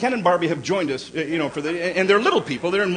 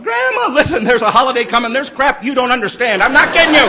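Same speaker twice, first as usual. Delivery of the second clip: panicked pleading; 6 semitones higher, 6 dB louder than usual. Retold or imitated. Panicked pleading with crying child.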